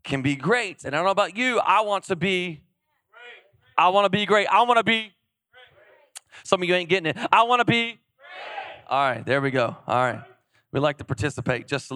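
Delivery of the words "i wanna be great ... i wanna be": calling out to the crowd. Real, not acted. Prompting congregation to respond.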